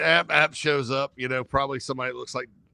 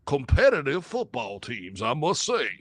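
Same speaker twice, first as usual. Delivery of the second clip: put-on Mississippi accent. Host mocks the Ole Miss schedule in a light Mississippi accent. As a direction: play a Southern gentleman defending the Rebel schedule, in a light Mississippi accent. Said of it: "I'll do a Mississippi accent".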